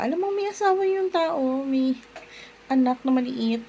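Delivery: exasperated, can't believe her nerve; indignant scolding of the other woman; indignant outburst. Real, not acted. Ranting about coworker's wife.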